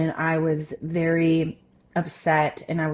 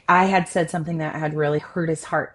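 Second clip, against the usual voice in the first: ordinary talk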